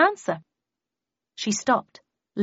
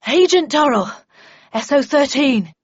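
breathless announcement; 5 semitones higher, 8 dB louder than usual. A narrator's reading. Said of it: "he announced breathlessly".

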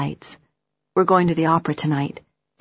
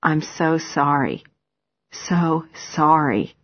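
slow, heavy apology; remorseful; slower than usual. Acted. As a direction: drag it out with guilt. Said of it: "bows his head and says".

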